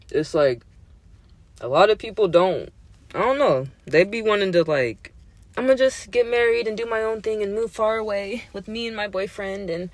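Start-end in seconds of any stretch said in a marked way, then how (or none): 5.6-9.9 higher, breezy mock of a girl; mocking carefree girl. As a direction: lightly mimic a girl brushing off her family. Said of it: "heard people say that".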